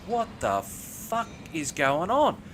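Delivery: slow, drawn-out disbelief; bewildered. Retold or imitated. His bewildered reaction in the story.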